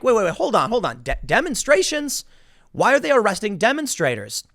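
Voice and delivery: lightly acted confusion, pitch jumping high on demonstrations; mock confused citizen. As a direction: play a puzzled regular guy catching on. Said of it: "Regular people are gonna be like".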